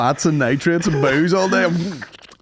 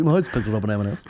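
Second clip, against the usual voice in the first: mock gangster; 5 semitones lower, faster than usual. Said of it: "how non-gangster is it being like".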